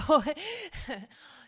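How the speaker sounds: loud, bursting self-conscious laugh; embarrassed laugh. Real, not acted. Host embarrassed doing warm-ups on audio, loud laughter. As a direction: laugh it off, embarrassed at being heard.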